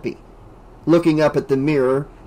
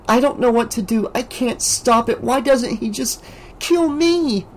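tearful; 9 semitones higher than usual. A narrator's reading. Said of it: "Tears welled up in her eyes".

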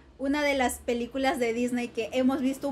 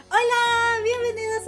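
loud greeting; 7 semitones higher, 3 dB louder than usual. Real, not acted. Saludo gritado de youtuber.

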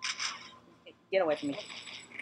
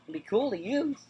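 voice crack; 4 semitones higher than usual. Real, not acted. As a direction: voice cracking upward mid-phrase. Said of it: "did you guys hear that voice crack".

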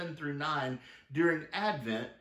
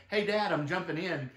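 mild mock yell, pitched higher; lightly raised voice for a retold holler; retold child's yell; 5 semitones higher, 3 dB louder than usual. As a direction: imitate a girl calling out to her dad. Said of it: "she yelled".

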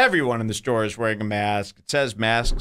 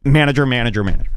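insistent calling; 5 dB louder, much faster than usual. Retold or imitated. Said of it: "I go".

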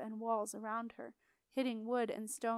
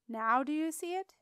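higher and louder, pressing for an answer; demanding; 5 semitones higher, 6 dB louder than usual. A narrator's reading. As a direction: insist sharply that they see it now. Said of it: "the educated voice demanded".

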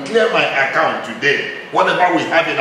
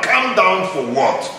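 indignant retort; 3 semitones higher, slower than usual. Real, not acted. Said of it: "You have this holy anger".

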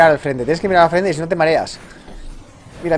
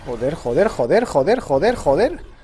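rising panicked cursing. Real, not acted. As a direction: build the swearing from muttered to panicked. Rising panic as speed builds.

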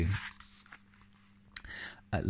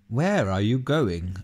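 put-on mild old man voice; 3 semitones higher, 7 dB louder than usual. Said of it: "asked the old man".

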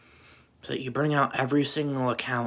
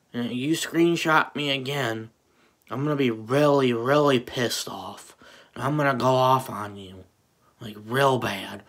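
angry threat; 5 dB louder than usual. Real, not acted. Threatening rival kid in rant.

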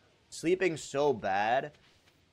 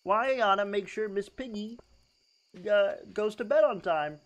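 Jordan Peterson impression; 6 semitones higher than usual. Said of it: "do Jordan Peterson".

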